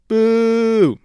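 loud playful boo at rivals; jeering boo, all in fun; mock boo. Mock booing the rival team.

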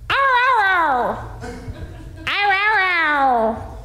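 high yelping ow ow ow; dog howl imitation. Dog howling back on the radio, high yelping. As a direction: yelp like a dog trying to talk.

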